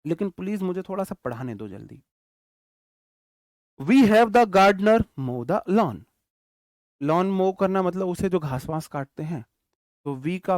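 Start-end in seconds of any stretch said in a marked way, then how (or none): 3.8-6.0 very slow, loud, word by word; slow dictation. Shown as a demonstration. Teacher dictating an example sentence to his class, very slow and loud. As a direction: dictate each word so students can write it. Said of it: "teacher dictates example sentence".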